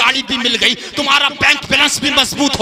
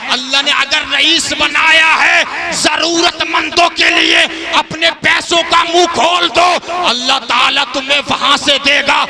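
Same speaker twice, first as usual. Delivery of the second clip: booming political rally speech; 4 semitones higher than usual. Acted. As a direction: call out to the whole crowd.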